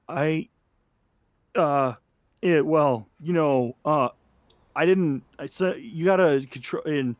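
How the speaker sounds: halting, as if shrinking back; scared and curious. Acted. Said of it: "scared and curious, and he just goes".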